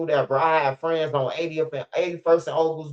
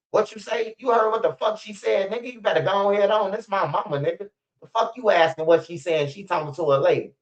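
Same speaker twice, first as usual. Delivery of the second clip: high aggressive guard voice; imitating the security guard; 6 semitones higher than usual. Guard backing up Laura Lightfoot against the son, high mock threat. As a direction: get in his face, pitched way up. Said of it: "Her security say".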